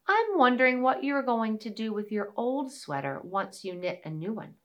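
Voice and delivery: a hint of a small mouse; lightly voiced little mouse; tiny squeaky critter. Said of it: "said the little mouse".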